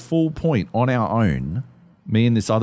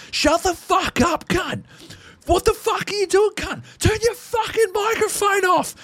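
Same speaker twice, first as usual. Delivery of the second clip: very high, strained Aussie shouting, acted out; Aussie yelling. Aussie players yelling at a hot-micing American, imitated furious Aussie shouting. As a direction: imitate an Aussie mob losing their minds. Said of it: "Aussie voices, and, and they'll be like".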